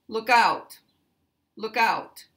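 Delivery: "out" stressed, falling; stress on the particle. Shown as a demonstration. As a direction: punch "out" in "Look out", let it drop. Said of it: "The particle takes the stress".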